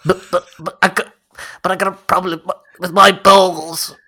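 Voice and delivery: whiny pleading weirdo; a creep whining about his balls; creepy stranger voice. Acted. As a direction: beg like a creepy neighbour. Improvised creep voice, role-play.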